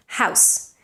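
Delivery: "House" breathed with an unvoiced final S; whispered voiceless house. Shown as a demonstration. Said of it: "ends in a voiceless S".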